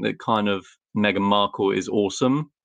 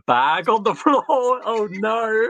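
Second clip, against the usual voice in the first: real startled squeak, much higher; surprised; 13 semitones higher than usual. Real, not acted. Seeing her cat get into a bag, startled and high. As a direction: caught off guard, voice jumping up.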